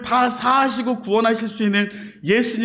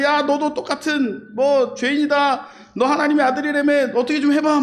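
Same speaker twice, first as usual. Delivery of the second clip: higher-pitched jeering taunt; mocking abuse; 6 semitones higher than usual. Robber reviling Jesus on the cross, jeering. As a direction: jeer at him in a raised pitch. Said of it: "예수님을 막 욕하는 거예요".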